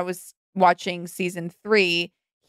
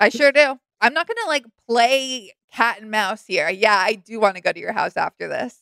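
blunt mock reply. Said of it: "And she's like".

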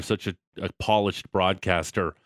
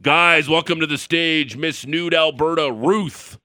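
higher, loud stage introduction; strip club DJ; 6 semitones higher, 4 dB louder, slower than usual. Pretend. Host's least sexy names game, mock DJ hype. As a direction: build up the act like a club announcer. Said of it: "being a strip club D J voice guy".

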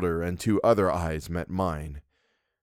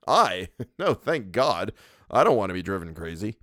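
laughing dismissal. Acted. Louis laughs off the book.

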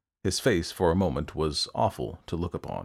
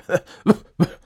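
loud, high acted coughs; coughing fit; 11 semitones higher, 10 dB louder than usual. A narrator's reading. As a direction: cough hard in character. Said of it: "he coughed again".

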